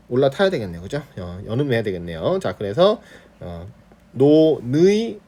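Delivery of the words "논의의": 논의의 drawn out as no-nui-ui; slow, careful no-nui-ui for 논의의; linked full diphthongs. Shown as a demonstration. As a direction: slowly link the n, glide both ui sounds in 논의의. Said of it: "논의에도 되고".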